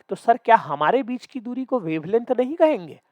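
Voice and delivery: playfully put-on huffy question; mock indignant. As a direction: imitate offended students pleading their case. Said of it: "ये वाले लोग गुस्सा हो गए".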